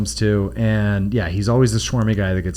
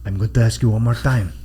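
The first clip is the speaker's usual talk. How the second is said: put-on Puerto Rican accent; 3 semitones lower, 3 dB quieter than usual. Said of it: "the Puerto Rican accent".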